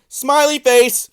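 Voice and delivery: The speaker's impression. YouTuber mocking the card seller, slow high impression. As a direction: ham it up as the card seller, dragging each word. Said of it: "my impression of him right there".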